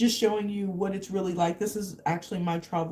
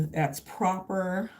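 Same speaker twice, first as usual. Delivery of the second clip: British phrase; slower than usual. Retold or imitated. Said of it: "I love when they say".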